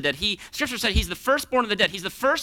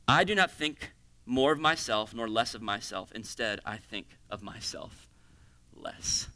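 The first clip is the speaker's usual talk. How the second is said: much softer, fading to a whisper; hushed reading; 10 semitones lower, 6 dB quieter than usual. Real, not acted. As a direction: let the last word fade to a breath. Quiet reading of quote.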